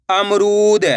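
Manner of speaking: syllables joined into one slow word; blended word. Shown as a demonstration. Teacher joining the syllables for learners, slowly blended. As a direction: read it as one whole, stretched word. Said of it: "तो मिलके बन जाएगा".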